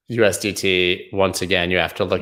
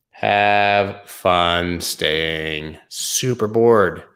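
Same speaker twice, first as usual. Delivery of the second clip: deadpan, stretched out slowly; bored, mocking farewell; slow sarcastic drawl; much slower than usual. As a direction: drag it out, mock bored. Sarcastic sign-off.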